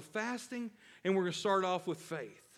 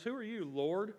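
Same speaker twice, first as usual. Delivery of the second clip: "Who are you, Lord?" with a rising, amused lilt; playful mock disbelief; mock incredulous; 5 semitones higher, 3 dB quieter than usual. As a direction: tease Saul's cluelessness. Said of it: "isn't that hilarious".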